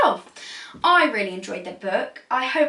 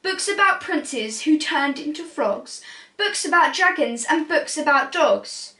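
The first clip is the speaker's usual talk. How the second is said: lively storybook read-aloud; animated rhyming picture-book narration; reading to children; 3 semitones higher than usual. A narrator's reading. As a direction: read it like bedtime story time.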